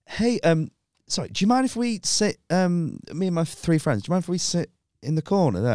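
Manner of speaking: a hint of an awkward polite young man; imitating the polite lad. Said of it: "he goes".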